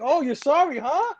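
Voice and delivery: high-pitched imitated sarcasm, rising on huh; mocking taunt. Retelling her answer to the pathetic driver, mocking. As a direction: throw the apology back at him. Retold taunt of apologizing villain.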